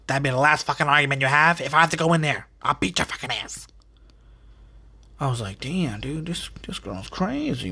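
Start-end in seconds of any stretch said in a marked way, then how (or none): 0.1-3.7 fast mock threat from a fed-up mother; imitated mom yelling. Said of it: "my mom would yell out". 5.6-7.7 half-whispered, softer aside; hushed disbelief. Retold or imitated. Hushed reaction to mom's threat.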